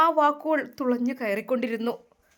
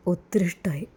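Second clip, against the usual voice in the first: lower, breathy whisper of love; whispered confession; 7 semitones lower than usual. A narrator's reading. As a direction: whisper it as a secret. Suitor confesses his love softly.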